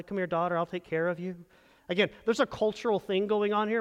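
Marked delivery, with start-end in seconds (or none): 0.0-1.4 mock tender husband. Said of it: "wouldn't encourage you to call your wife".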